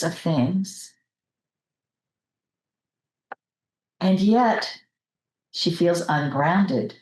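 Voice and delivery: unhurried meditation leader's voice, with long pauses; guided meditation. Real, not acted. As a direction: gently guide the group into relaxing, pausing between phrases.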